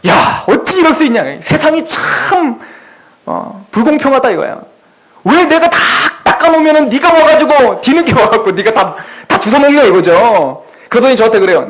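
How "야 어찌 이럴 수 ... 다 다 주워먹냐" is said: lament. Retold or imitated. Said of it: "한탄을 하는 거예요".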